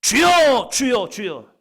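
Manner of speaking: loud high cry of 주여. Acted. Blind beggars calling to Jesus, a loud high cry. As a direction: call out to the Lord loudly.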